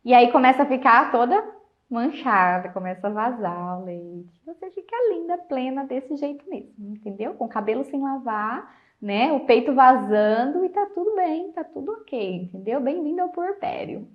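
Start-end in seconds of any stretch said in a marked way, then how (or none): 4.4-14.1 soft, dry sarcasm about looking lovely; quiet mock praise; ironic praise. Real, not acted. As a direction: tease her gently, deadpan. Ironic praise of messy postpartum life.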